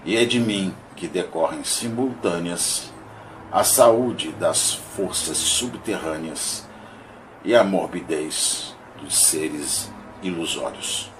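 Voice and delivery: measured, declaimed verse with pauses between lines; poem recitation. Acted. Reading Augusto dos Anjos's monologue of a shadow to listeners, poem recitation. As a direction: recite it line by line, emphatic openings falling away.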